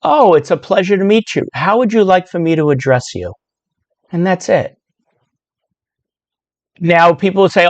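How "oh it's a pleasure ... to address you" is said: polite greeting demo. Shown as a demonstration. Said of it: "the proper thing to say would be".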